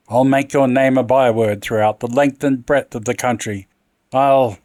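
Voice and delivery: angry. Acted. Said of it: "he shrieked".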